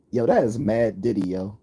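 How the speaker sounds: East Coast slang slipping out; East Coast accent. Real, not acted. Streamer reacting to chat, East Coast accent slipping out. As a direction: let the East Coast accent come through. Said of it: "East Coast accent is coming out".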